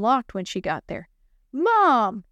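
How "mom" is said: raised higher shout. Acted. Girl banging on car window, shouting. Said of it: "she shouted".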